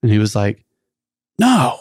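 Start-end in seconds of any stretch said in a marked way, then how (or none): 1.4-1.8 high, swooping no; exaggerated denial. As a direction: act out an over-innocent denial, pitch jumping up. Youth pastor's reassuring denial, acted.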